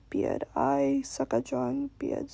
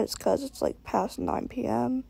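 dead tired; 4 semitones lower than usual. Real, not acted. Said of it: "if I sound dead tired".

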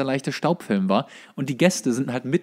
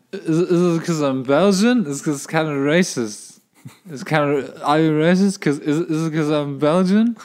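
put-on louder, slow, whiny English as a drunk tourist; drunk Belgian guest; 4 semitones higher, 5 dB louder than usual. Drunk Belgian guest protesting his bar ban, in a slow whiny English accent. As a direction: plead slowly in English, playing the offended drunk. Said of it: "ich die ganze Zeit".

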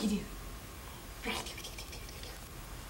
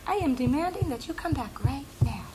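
high squeals, then a loud mock demand; mother voicing her bossy daughter, high and insistent; bossy baby voice; 3 semitones higher, 3 dB louder than usual. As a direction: play the bossy baby ordering mom back. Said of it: "She's very bossy. She'll go".

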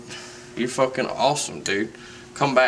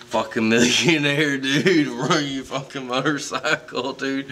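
laughing; 2 semitones higher than usual. Real, not acted. Laughing teasing of celebrity.

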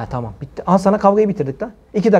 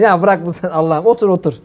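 arkadaş taklidi; 4 semitones lower than usual. Retold or imitated. Arkadaşı sokakta yatana çıkışıyor.

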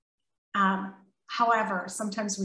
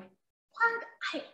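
defensive indignation; 6 semitones higher than usual. Retold or imitated. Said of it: "I could have been like".

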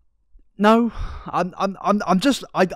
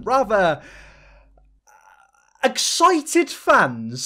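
sarcastic; 5 semitones higher, 5 dB louder, much slower than usual. Real, not acted. Drawn-out ironic euphemism.

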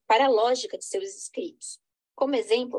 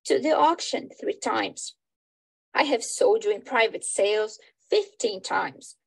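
dramatic reading. Acted. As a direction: play reading with lightly voiced characters. Reads English version of play.

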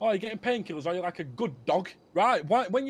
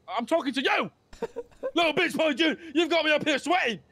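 angry yelling; 6 semitones higher than usual. Acted. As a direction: tear into him. Boss yells at member.

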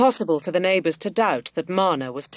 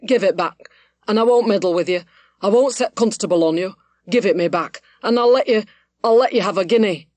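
pleading cry, growing louder; raised cry; 4 dB louder than usual. A narrator's reading. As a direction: raise your voice and beg, urgency building to the end. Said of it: "raising his voice to a cry".

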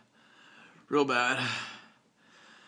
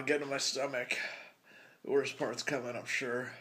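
quiet, queasy voice; nauseous; 5 dB quieter than usual. Real, not acted. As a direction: hold back the nausea as you talk. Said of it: "not sure this is gonna stay down".

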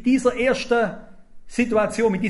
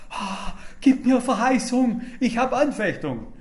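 pleading; 3 semitones higher than usual. Retold or imitated. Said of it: "hat gesagt".

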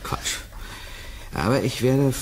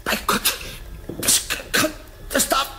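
horrified disbelief. Acted. Sees microscope deform, horrified.

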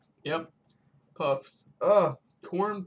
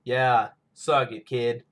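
taunting character; 8 dB louder, slower than usual. Pretend. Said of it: "And he's like".

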